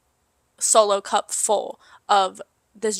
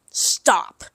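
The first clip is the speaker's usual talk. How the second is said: put-on drunk whispered stop; 4 semitones lower than usual. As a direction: whisper it, woozy. Drunk in car.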